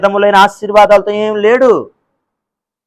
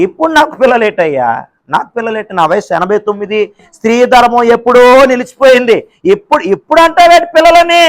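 building from a murmur to a high incredulous cry; rising disbelief ending in a high exclaim; incredulous Sarah; 5 semitones higher, 3 dB louder than usual. Acted. Sarah protesting to God she is too old, building incredulity.

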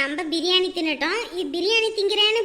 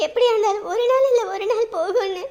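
tearful. Acted. Daughter moved to tears about father.

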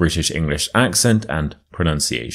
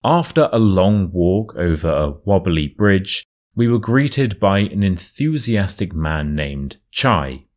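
storyteller reading a true tale; story narration. A narrator's reading. Reads the story aloud.

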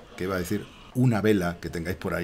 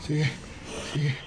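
frantic urging; 6 semitones higher than usual. Real, not acted. Urge repetidamente a salir.

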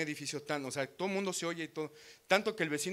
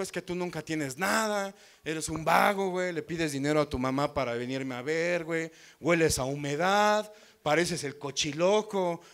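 imitating the girlfriend scolding, a bit louder; mock angry rant; 4 dB louder than usual. Girlfriend berating him over the chicharrones, mock scolding. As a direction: rattle off her insults in a mild mock yell. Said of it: "ella gritándome así".

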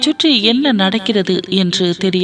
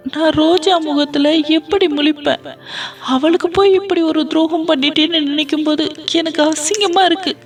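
wailing and crying; 9 semitones higher than usual. Acted. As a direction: beat your head and wail it out, pitched high. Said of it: "தலையில் அடித்துக்கொண்டு அழுதாள்".

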